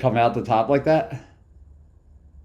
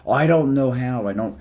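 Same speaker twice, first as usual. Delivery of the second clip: mocking clueless plant owner; 3 semitones higher than usual. Streamer mocks people who say they can't grow plants, lightly whiny. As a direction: lightly impersonate someone helpless with plants. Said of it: "I'm not making fun of them".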